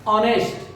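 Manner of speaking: ऑनेस्ट starting straight on the vowel with no h; ऑनेस्ट with no h sound at the start; silent h. Shown as a demonstration. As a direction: say ऑनेस्ट with the h left out. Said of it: "इसको हम हॉनेस्ट नहीं बोलेंगे".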